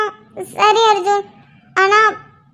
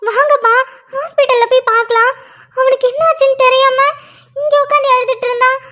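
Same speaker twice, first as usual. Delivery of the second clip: higher-pitched, anxious urging; frantic pleading; 4 semitones higher than usual. Acted. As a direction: beg your father to get moving, in panic. Daughter urges father to hospital. (பதற்றத்தோடு கெஞ்சுவது)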